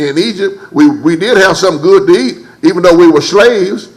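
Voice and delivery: lightly voiced complaining crowd; mild grumbling Israelites. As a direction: nag Moses about the graves. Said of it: "they're telling Moses".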